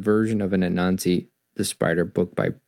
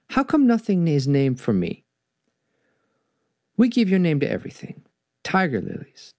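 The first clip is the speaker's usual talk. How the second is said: put-on Jamaican accent; 6 semitones higher than usual. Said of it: "kind of a Jamaican accent style".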